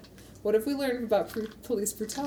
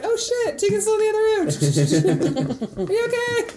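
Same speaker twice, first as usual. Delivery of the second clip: panicked shout; 6 dB louder than usual. Retold or imitated. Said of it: "I'm like".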